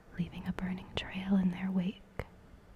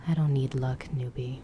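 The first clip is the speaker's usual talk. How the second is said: lower, smug whispered male voice; cocky Damon voice; 5 semitones lower, 3 dB louder than usual. Acted.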